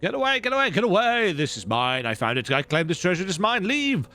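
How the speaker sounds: frantic, possessive miser clutching treasure; greedy hoarder voice. Acted. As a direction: snarl it like a greedy goblin guarding loot. Reads greedy hoarder's lines.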